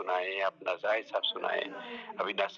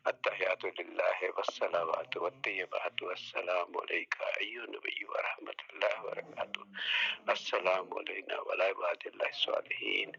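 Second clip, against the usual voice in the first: prayer recitation; 2 semitones lower than usual. Acted. Teacher recites prayer for the class to correct, hushed. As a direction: murmur the prayer words devoutly, half under breath.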